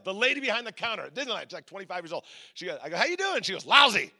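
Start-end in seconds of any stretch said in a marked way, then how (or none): 3.0-3.4 chirpy greeting. Retold or imitated. Cheerful greeting repeated. 3.7-4.1 sullen. Retold or imitated. Sullen cashier's answer.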